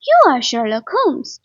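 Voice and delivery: loud exclamation of recognition; exclaiming. A narrator's reading. Man recognising the famous detective, exclaiming. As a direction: call it out, astonished. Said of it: "I exclaimed".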